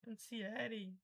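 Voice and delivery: "Ansiere" read with S, not Z; wrong guess. Shown as a demonstration. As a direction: guess at anxiety as "an-si-E-re". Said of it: "Fale errado mesmo". ("Ansiere" lido errado de propósito)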